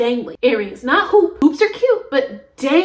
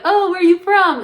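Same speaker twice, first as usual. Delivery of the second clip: higher, louder curious questioner; cashier's question; 6 semitones higher, 4 dB louder than usual. Retold or imitated. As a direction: lightly act out an inquisitive cashier. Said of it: "the guy was like".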